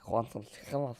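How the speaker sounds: lightly put-on voice, every word leaned on hard; hammy, over-stressed mimicry of a mate; a bad, overcooked impression; overdone impression. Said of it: "that's way too emphasizing it".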